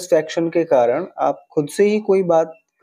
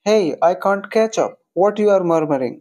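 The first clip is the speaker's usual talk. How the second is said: slow model sentence; 3 semitones higher, much slower than usual. Shown as a demonstration.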